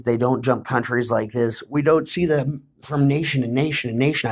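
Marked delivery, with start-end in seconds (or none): 1.7-4.3 talking through a yawn; words stretched by a yawn. Real, not acted. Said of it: "I apologize as I'm yawning".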